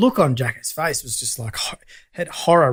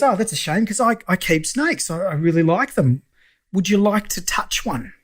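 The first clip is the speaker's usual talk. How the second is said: higher, drawn-out imitation of the mechanic; snake-keeping client; 5 semitones higher than usual. Snake lover offering his lender a touch, high and coaxing. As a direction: voice an eager snake owner, high and slow.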